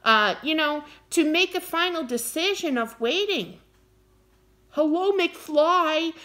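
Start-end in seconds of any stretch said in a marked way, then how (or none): 4.7-6.1 mock hello mcfly. Mock knocking on a head.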